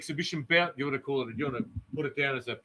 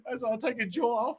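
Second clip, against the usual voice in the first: higher, Scottish hardman threat, overdone; over-the-top Scottish accent; 7 semitones higher than usual. Pretend. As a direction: push the Scottish accent too far. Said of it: "the accent went crazy".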